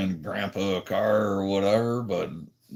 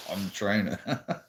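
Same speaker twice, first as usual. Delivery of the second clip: laughing; slower than usual. Real, not acted. Laughing through words.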